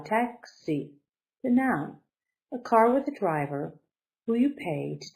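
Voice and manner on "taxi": taxi with TAX up high, xi dropping; high-then-low stress demo. Shown as a demonstration. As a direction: lift tax, let xi fall. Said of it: "So up high".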